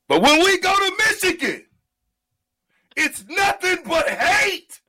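high, loud, slowed rally cry; rallying shout. Real, not acted. Host rallying listeners against Michigan, loud slow shout. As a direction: bring it up big and loud like a fight chant.

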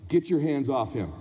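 low-pitched commanding dad voice; stern father. Retold or imitated. Dad orders mom off their son, stern. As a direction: give the order low and firm.

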